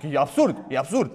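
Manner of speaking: low, scoffing voice of a doubter; lightly mock the people who call it absurd; mocking skeptic. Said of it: "oamenii care aud imaginea asta zic". (imitând batjocoritor un sceptic)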